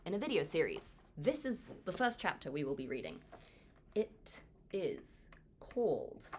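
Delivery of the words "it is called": drawn-out teaser. Acted. Building suspense for chapter title.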